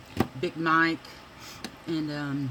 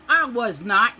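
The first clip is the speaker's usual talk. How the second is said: louder, higher flat denial; grandma protesting her innocence; indignant denial; 6 semitones higher, 12 dB louder than usual. Retold or imitated. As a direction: deny it huffily. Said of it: "clears throat".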